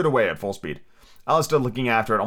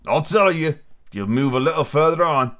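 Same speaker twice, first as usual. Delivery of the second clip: lightly put-on sweet creature voice; soft, sweet fawn; 4 semitones higher, 3 dB louder than usual. A narrator's reading. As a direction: coax gently as a storybook fawn. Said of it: "had a soft, sweet voice".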